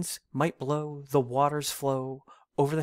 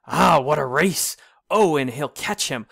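louder excited commentary; excited onlooker; 6 dB louder than usual. Acted. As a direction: cheer on the chase. Onlooker cheering the chase.

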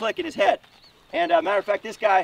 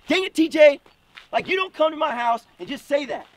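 loud, higher exasperated scolding; angry bark; 5 semitones higher, 5 dB louder than usual. Retold or imitated. Dad getting up in the kid's face, angry bark. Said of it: "he barked at that kid".

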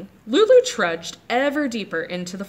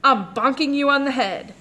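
put-on bold little girl; 5 semitones higher, 4 dB louder than usual. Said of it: "said Lulu".

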